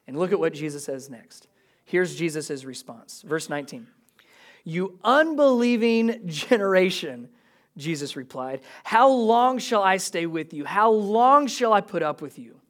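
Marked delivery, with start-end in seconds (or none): 4.6-7.3 slow, drawn-out exasperated rebuke; annoyed. Acted. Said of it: "a little sarcastic and annoyed at times". 8.8-12.6 mildly exasperated questioning; sarcastic, annoyed. Acted. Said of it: "a little sarcastic and annoyed at times".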